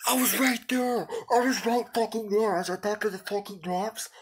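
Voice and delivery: high, loud anguished yell. Real, not acted. Streamer after a huge fall, high anguished yell. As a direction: cry out at losing it all. Fell from near the top.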